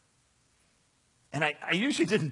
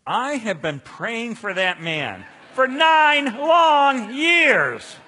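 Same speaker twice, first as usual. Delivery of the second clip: overcome with joy; 8 semitones higher, 12 dB louder, much slower than usual. Retold or imitated. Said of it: "She's weeping and sobbing".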